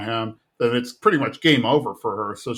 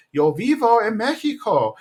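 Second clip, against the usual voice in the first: lightly voiced little girl; 9 semitones higher than usual. Girl repeating herself.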